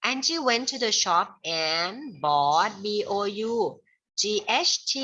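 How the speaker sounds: "Angie went to the shop" read slowly at normal loudness; steady pace for writing it down; slow dictation. Shown as a demonstration. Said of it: "เขียนว่าไปซื้อเค้กก็แล้วกันเนาะ".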